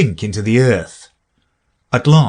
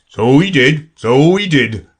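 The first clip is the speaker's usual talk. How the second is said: sighing Gryphon; 5 semitones higher, 4 dB louder than usual. A narrator's reading. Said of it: "sighing in his turn".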